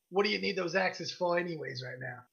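lightly voiced gruff woman shopkeeper; a hint of gruff merchant. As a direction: question a customer in a mildly gruff voice. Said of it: "she's got this gruff voice".

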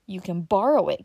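chatty rural uncle, puffing after sitting; old country uncle. Acted. Uncle Bobby chatting to Dick in the print shop, folksy old man.

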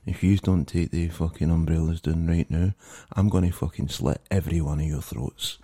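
a mock-menacing Scottish accent, kept fairly low; a lightly done hard Glasgow threat; heavy Scottish accent. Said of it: "my most fucking heavy Scottish accent".

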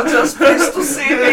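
put-on high, loud, drawn-out German accent; hammed-up German squeal; camp German accent. Joking with friends about the python, camp German accent. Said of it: "Keep doing that accent".

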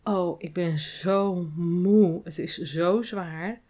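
slow, drawn-out weary sigh of a line; imitating an exhausted colleague, slow; tired complaint. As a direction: sound worn out from the shift. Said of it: "iemand die zegt".

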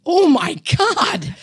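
high, slow, drawn-out horror; shocked gasp. Retold or imitated. Sister hearing about the helicopter, high and horrified. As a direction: let the shock land slowly. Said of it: "she went".

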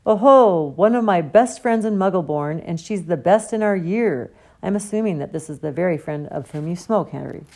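big booming hearty "Oh-ho", then beaming praise; jovial old professor. Acted. Potions master beams at Harry about his clever friend, loud and jovial. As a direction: play a pompous, delighted old teacher.

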